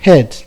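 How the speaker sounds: ഹെഡ് said short and firm, never ഹീഡ്; ഹെഡ് with short vowel, stressed; short e in head. Shown as a demonstration. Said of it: "ഹീഡ് എന്ന് ഉച്ചരിക്കാറില്ല".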